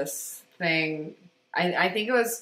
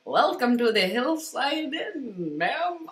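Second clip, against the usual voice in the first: put-on Irish accent; 4 semitones higher, 5 dB quieter than usual. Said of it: "I can't do an Irish accent".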